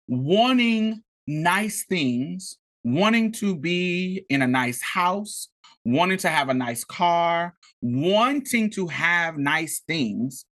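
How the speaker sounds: slow, deliberate list with "wanting" leaned on each time; stressing wanting. Real, not acted. To the podcast listeners, making a point clear: slow emphatic "wanting". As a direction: lean hard into each "wanting", drawn out. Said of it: "I wanna make it very clear".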